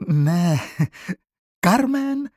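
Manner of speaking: high, loud frightened cry; startled protest. Acted. Frightened girl corrects the teacher, loud high protest. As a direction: yelp it out in shock.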